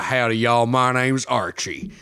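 slow, drawn-out mock Texan drawl; rich Texan. Archie pitching his oil farm to investors, rich Texan accent. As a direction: ham up a wealthy Texan accent. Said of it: "a rich, rich Texan who's like".

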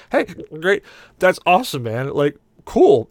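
put-on sloppy drunk congratulations; drunk cabbie cheer. Hiccuping cabbie cheers passenger, sloppy and loud.

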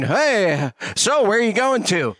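mocking passenger. Mocking seatmate on plane.

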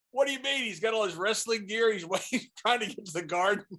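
imitated indignant objection; indignant protest. Bull protests being put out.

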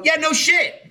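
exasperated. Retold or imitated. Mocking the obvious warning.

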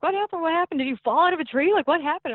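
high, urgent imitated questioning; alarmed husband. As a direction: act out a husband's worried volley of questions. Voices alarmed husband questioning her.

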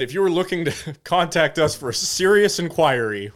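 amused, laugh breaking in mid-sentence; failing to keep straight face. Real, not acted. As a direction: try to sound official but crack up. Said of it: "can't even say with a straight face".

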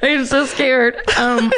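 grinning through the words; suppressed smile; trying not to smile. Real, not acted. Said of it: "You are smiling so big right now".

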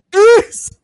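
loud high yell of police; bellowing police at a suspect; retold shout. Friend recalls cops shouting police at the street guy, loud high yell. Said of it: "So then they're like".

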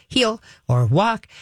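slow drawn-out cue; walking command. Shown as a demonstration. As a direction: give the walk cue clearly. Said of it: "whatever your walking word is".

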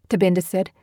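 ordinary delivery, nothing marked

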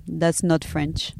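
slow, snooty put-down; snotty dismissal. Retold or imitated. Dad dismissing French Canadian to his child, mock snotty. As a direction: imitate a snobbish French dad, drawn out. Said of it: "let me tell you the snottiest thing".

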